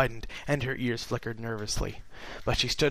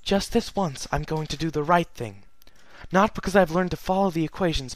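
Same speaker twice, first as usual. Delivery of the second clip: lightly voiced regal princess, sad and earnest; Celestia's letter; 3 semitones higher than usual.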